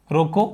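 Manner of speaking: "रोको" alone, then stop; "रोको" के बाद विराम. Shown as a demonstration. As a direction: cut off after "रोको" as at a comma. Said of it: "comma लगा दिया". ("रोको" कहकर ठहराव)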